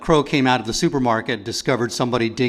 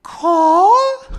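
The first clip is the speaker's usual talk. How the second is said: high caw rising like a question; 6 dB louder than usual. Pretend. Crow demonstrating the question mark, questioning caw. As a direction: caw as if asking. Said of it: "Next, the question mark".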